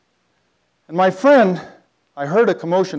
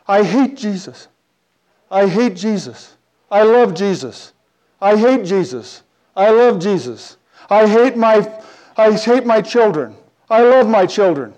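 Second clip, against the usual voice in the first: slow, higher-pitched anguished cries; crying woman's wail; 5 semitones higher, 4 dB louder than usual. Retold or imitated. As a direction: imitate a distraught woman wailing in repeated bursts. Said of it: "she's going on like this".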